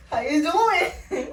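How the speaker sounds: slow laughing come-on; slow mock flirt, laughing. Woman mocking sleazy men, slow laughing come-on. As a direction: drag it out like a cheesy pickup. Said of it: "pinching nipple".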